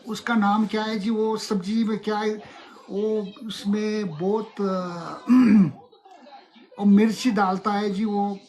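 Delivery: put-on Punjabi accent. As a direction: keep the Sardar ji going with a grin. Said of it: "Sounds exactly like Punjabi lo".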